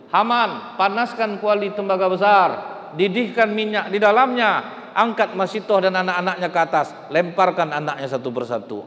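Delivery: raging king commanding Haman; furious Pharaoh. Acted. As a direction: bellow the orders to boil them. Pharaoh ordering the torture.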